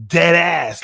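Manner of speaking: imitation American street slang accent; rough stab at an American accent; attempted American accent. Shown as a demonstration. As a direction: throw out American street greetings, badly faked. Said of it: "My American accent isn't really the best".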